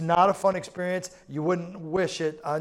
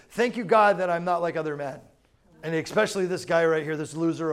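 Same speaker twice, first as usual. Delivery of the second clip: proud Pharisee; 3 dB louder than usual. Retold or imitated. Pharisee praying proudly to God, smug and loud. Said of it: "here's how the Pharisee prayed".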